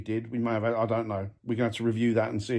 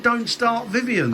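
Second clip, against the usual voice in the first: imitating spirit box; 8 semitones higher, slower than usual. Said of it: "I thought he said".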